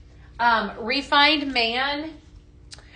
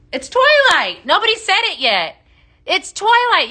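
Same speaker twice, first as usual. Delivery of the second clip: much higher and louder, thrilled at the Twilight answer; excited exclamation; 8 semitones higher, 5 dB louder than usual. Real, not acted. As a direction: burst out with delight, high and loud. Excited about Twilight guess.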